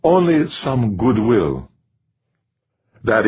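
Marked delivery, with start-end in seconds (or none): 0.0-1.7 slow, higher-pitched gentle answer; smiling reply. A narrator's reading. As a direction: answer slowly with a smile. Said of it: "Smiling, DiNardo replied".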